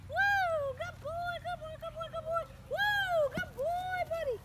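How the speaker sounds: dog praise voice. Real, not acted. Praising dog after the find.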